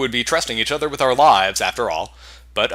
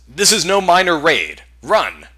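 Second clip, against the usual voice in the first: urgent shout; 5 semitones higher, 7 dB louder, slower than usual. Acted. Raynor urges flight.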